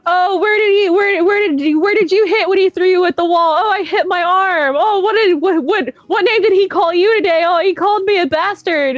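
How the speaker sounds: high, whiny mock voice of crybaby fans. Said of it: "you're like".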